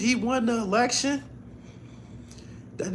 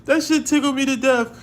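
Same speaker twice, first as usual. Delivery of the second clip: much higher and louder, still giggly; overjoyed exclamation; tickled; 10 semitones higher, 9 dB louder than usual. Real, not acted. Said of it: "I was tickled as hell".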